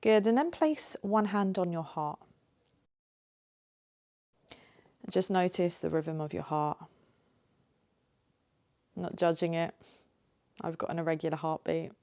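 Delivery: gentle guiding voice with long pauses; lightly held meditation-teacher delivery; guided meditation. Acted. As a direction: ease them into it, unhurried, leaving space between phrases.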